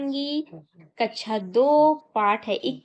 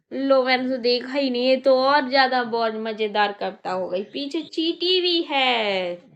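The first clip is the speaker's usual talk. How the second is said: put-on poem for children. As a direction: recite it with a lilt for little kids.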